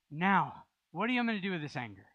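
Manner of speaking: loud, pushing complaint to God; a forceful venting prayer. Retold or imitated. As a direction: press God hard with the frustration. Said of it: "my prayers are really forceful".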